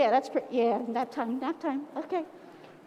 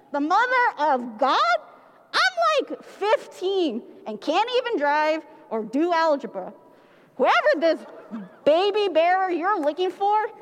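put-on an outraged fifteen-year-old refusing; indignant teenager; 3 semitones higher, 3 dB louder than usual. Mary refusing the angel, indignant and a little loud. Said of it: "she yelled".

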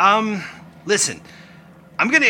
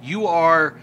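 indignant Rickety; 3 semitones higher, 6 dB louder than usual. Acted. Angry NPC banishes player.

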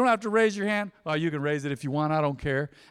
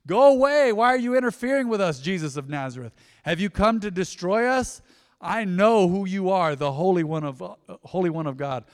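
imitated demon shouting; 4 dB louder than usual. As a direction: cry out like a demon causing a scene, then settle. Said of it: "began shouting at Jesus".

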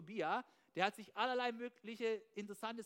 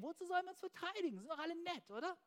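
higher, faster naive voice; mock innocent shrug, pitched up and quick; mock naive thought; 7 semitones higher, faster than usual. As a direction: play the gullible believer brushing danger off. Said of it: "Wir denken".

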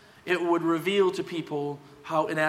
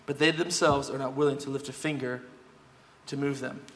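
measured, formal reading of a Bible passage; formal scripture reading. Acted. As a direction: read it out to the congregation with weight. Reads the Bible passage aloud.

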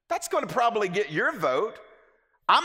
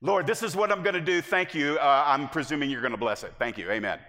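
matter-of-fact prayer in the usual voice; blunt presumptuous prayer; 2 semitones lower than usual. Shown as a demonstration. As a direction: rattle off the plan and just expect God to bless it. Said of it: "This is the way the Lord hears it".

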